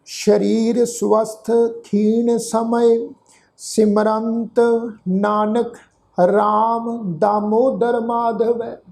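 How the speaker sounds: slow, drawn-out closing verse; scripture recitation. Shown as a demonstration. Teacher completes the verse for congregation, slow recitation. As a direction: recite slowly, pausing between phrases. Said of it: "ਪਾਠ ਉਚਾਰਨ ਕਰਾਂਗੇ".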